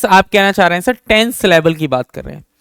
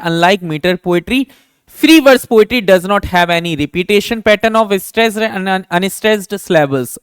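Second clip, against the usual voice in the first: slow dictation; much slower than usual. Shown as a demonstration. Teacher dictating definition.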